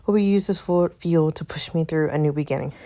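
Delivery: slightly breathless reading; winded, stumbling through the words; out of breath. Real, not acted. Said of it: "Sorry, y'all, I'm out of breath".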